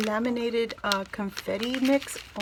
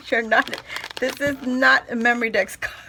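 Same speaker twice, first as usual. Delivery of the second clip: mock scolding; 7 dB louder than usual. Real, not acted. Laughing mock scolding of Jenny.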